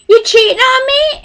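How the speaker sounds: lightly mocked drunk man, high-pitched; high, accusing imitation of a drunk; a hint of drunken mock outrage; drunk guy. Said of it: "the drunk guy comes by".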